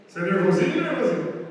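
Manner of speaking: teasing poke. Retold or imitated. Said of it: "cutuca o seu irmão assim".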